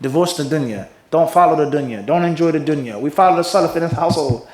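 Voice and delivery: mock preachy husband. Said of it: "And he says".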